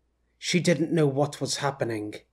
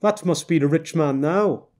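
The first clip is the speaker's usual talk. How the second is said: knowing woman; 2 semitones higher, 4 dB louder than usual. Acted. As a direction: talk down to him like a know-it-all wife. Woman character voice.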